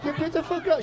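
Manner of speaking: put-on sing-song Asian accent welcoming customer; Asian nail lady accent. Nail salon lady greeting clients in Asian accent.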